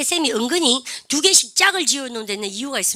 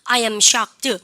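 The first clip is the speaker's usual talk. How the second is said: model reading; 4 dB louder, much slower than usual. Shown as a demonstration. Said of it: "시작".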